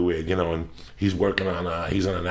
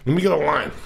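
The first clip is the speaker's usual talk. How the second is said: mock pushy junkie; 8 semitones higher, 5 dB louder than usual. Mimicking a coke-begging idiot.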